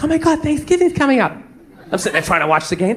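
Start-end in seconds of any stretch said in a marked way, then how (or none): 0.0-1.3 lightly mimicked excitement; a mildly gushing girlfriend impression; excited girlfriend. Girlfriend announcing the holiday to boyfriend, lightly imitated excitement. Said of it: "so she's all excited".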